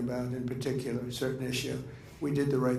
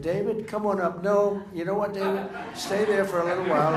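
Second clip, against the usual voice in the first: raised, higher retelling of a shouted call; retold call to David; 6 semitones higher, 5 dB louder than usual. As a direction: replay calling him up, then waving him off. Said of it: "I saved his life because I said".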